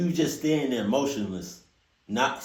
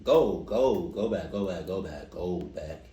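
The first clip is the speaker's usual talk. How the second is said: urgent warning; 5 semitones lower than usual. Retold or imitated. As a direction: urge him back, then trail off. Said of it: "Al said in a much more normal voice".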